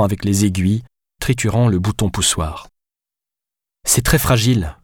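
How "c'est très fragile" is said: mildly cross warning; tense, lightly raised reproach; scolding growl. Acted. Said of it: "gronda-t-elle".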